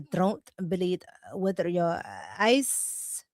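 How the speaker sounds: lightly voiced Omar, slow and drawn out; a hint of Omar, slowly lulling the listener; imitating Ilhan Omar. Mocking Omar's claims to stream viewers, slow lightly voiced impression. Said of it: "let me do it in her voice".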